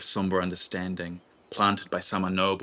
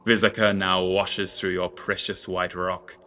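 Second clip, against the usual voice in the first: mirthless; 5 dB louder than usual. Acted. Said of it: "he said mirthlessly".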